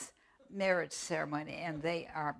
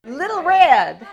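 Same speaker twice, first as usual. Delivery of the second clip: put-on little girl puppet voice; 7 semitones higher, 16 dB louder, slower than usual. Puppet says her name.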